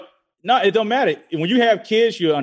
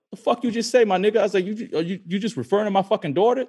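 retold angry challenge; 8 semitones higher than usual. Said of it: "attack mode".

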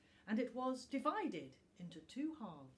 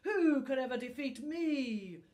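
loud, higher furious snarl; snarling dragon; 6 semitones higher, 11 dB louder than usual. A narrator's reading. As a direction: hurl the challenge like a proud dragon. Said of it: "he snarled".

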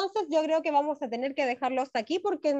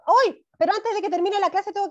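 surprised; 6 semitones higher, 3 dB louder than usual. Real, not acted. Sudden remembering mid-closing.

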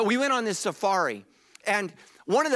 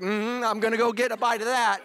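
hungry laughing growl; 4 semitones higher than usual. Pretend. Joking as a hungry lion.

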